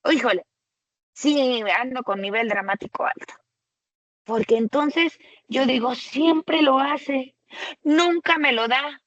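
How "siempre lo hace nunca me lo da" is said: mock dramatic complaint. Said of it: "Ya se escuchó el drama".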